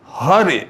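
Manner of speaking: हरे with the weight on ह; stress on first syllable. Shown as a demonstration. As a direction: hit the ह at the start of हरे. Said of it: "तो ह पे बलाघात हो रहा है".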